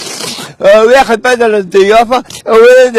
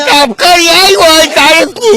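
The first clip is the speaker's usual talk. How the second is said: excited, raised-voice gushing; shouting; 4 semitones higher than usual. Real, not acted. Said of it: "بتزعق ليه طيب؟".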